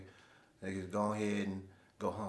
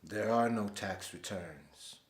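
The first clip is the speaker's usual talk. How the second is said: lightly voiced Jedi, slow and deliberate; a hint of slow, hypnotic suggestion; Jedi mind trick; slower than usual. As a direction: say it slowly, as if planting a Jedi command. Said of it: "In my Jedi mind trick voice".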